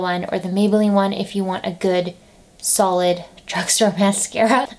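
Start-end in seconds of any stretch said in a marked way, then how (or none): 2.6-4.7 choking slightly mid-word. Real, not acted. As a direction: catch in the throat while talking. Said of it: "I don't know why I'm choking".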